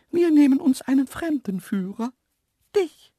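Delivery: high, loud, self-assured animal voice; cheeky antelope. A narrator's reading. Antelope appointing the man as guide, cheeky. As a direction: announce it pertly, up high.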